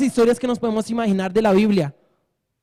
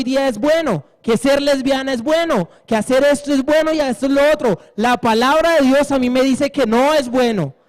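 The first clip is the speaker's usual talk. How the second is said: raised, fervent preaching; preaching at full force; 4 semitones higher than usual. Acted. Preacher quoting Brother Abraham to the congregation, fervent and raised. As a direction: drive it home like a revival preacher.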